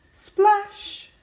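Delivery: high, loud falling splash; storybook splash sound; lively splash. Acted. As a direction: make the raindrop land. Rain splash sound effect.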